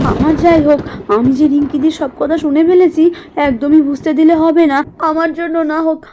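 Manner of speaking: steel yourself for your daughter's sake; lightly voiced mother's resolve. Mala, to herself, resolving to endure silently.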